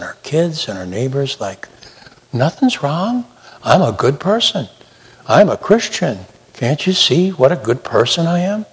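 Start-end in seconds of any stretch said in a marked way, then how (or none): 2.3-8.7 softly put-on innocence, lightly higher; mock innocence. Hypocrite presenting themselves to family and neighbors, mock innocence. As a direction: play a hypocrite insisting all is well.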